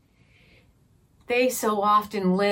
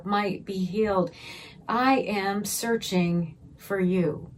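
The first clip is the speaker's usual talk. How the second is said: prayer. Shown as a demonstration. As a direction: pray it aloud to the congregation. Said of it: "let's do that in a little bit of a prayer".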